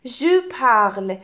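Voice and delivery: "parle" ending on a sounded l, e silent; silent final e. Shown as a demonstration. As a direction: slowly say "parle", sounding the l without a final vowel. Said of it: "خودش تلفظ نمیشه".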